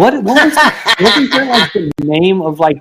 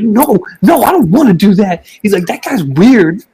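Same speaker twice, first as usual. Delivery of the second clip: put-on higher, swooping kid voice; imitated kid protesting; 5 semitones higher, 4 dB louder than usual. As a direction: play a child balking at a silly order. Acts out son refusing Gollum costume.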